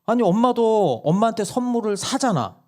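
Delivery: 훨씬 높은 아이 목소리로 따지기; 꼬마가 논리로 이기려는 듯; 따지는 아이 흉내. Retold or imitated. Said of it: "막내가 따지는 거예요". (엄마에게 따지는 막내 목소리)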